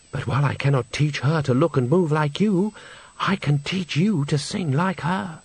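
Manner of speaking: measured, pleasant persuasion. Acted. Mysterious teacher promises Agnes singing lessons, pleasantly persuasive. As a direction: promise it smoothly, slowing at the end. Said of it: "It was a pleasant voice".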